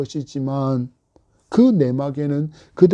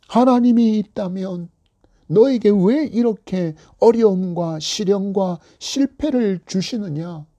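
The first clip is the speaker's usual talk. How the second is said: mild mocking taunt; 3 semitones higher than usual. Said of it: "믿지 않는 가족들이 자주 쓰는 말이".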